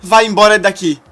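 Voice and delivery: loud, high hysterical screaming; betrayed woman screaming at her fiancé. A narrator's reading. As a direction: scream your hatred at him.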